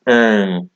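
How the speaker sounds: "Um" as a nasal French un, consonant almost silent; "Um" as a nasal vowel with a barely heard ending. Shown as a demonstration. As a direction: say "Um" from the back of the mouth, through the nose. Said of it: "very nasal in their pronunciation".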